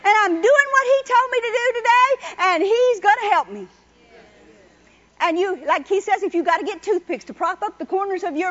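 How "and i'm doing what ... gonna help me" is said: triumphant declaration. Shown as a demonstration. Preacher showing how to greet a bad morning, loud and joyful. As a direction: proclaim it with all your strength. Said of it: "you still get up and you say".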